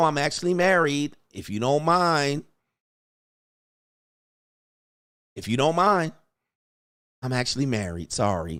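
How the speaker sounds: let-down, disappointed sound. Acting out a woman's reply to a cold approach, imitating her sounding disappointed. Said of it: "she's saying that disappointed".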